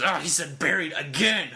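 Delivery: exaggerated fan's complaint; hammed-up indignant fan; mock outrage. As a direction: exclaim it in mock exasperation. Mimicking a fan's outraged reaction.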